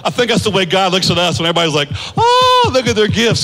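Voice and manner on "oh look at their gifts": mock gushing. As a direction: lightly parody gushing fans. Mocking everybody's gushing.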